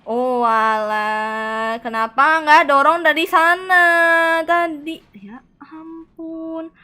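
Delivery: loud, high, drawn-out exasperation; exasperated groan. Real, not acted. Streamer scolds himself over the puzzle, loud drawn-out exasperation. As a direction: moan at your own mistake, stretched and loud.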